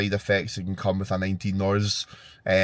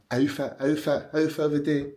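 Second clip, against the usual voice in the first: sing-song announcement; 5 semitones higher, 3 dB quieter than usual. Pretend. Vlogger announcing outfit of the day.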